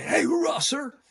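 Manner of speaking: enthusiastic hoorah. Retold or imitated. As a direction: call out hoorah full of energy. Marine greeting him enthusiastically.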